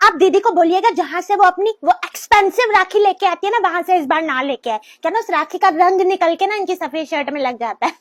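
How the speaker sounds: loud complaining to mother-in-law, rising to a shout. Acted. Wife loudly complains to mother-in-law about expensive rakhi, loud. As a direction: push the complaint over everyone, loud and fast at the end.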